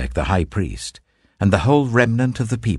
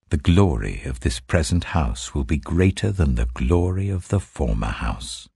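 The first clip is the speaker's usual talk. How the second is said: lower, solemn divine voice; a measured, lower voice of the Lord giving commands; 3 semitones lower than usual. Acted. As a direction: speak as God addressing his prophet, gravely. Voicing the Lord's words.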